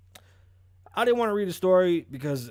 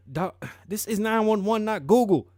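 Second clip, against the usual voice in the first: loud, high-pitched operator; mock indignant shout; exasperated 911 operator; 8 semitones higher, 7 dB louder than usual. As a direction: play a dispatcher losing patience, raised voice. Operator snaps back at caller.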